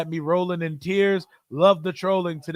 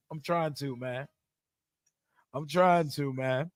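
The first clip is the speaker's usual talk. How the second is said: much softer, trailing wistful sigh; quiet longing; 4 semitones lower, 8 dB quieter than usual. Real, not acted. Streamer wishing for the trip, soft and trailing. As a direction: let it fade, almost to yourself.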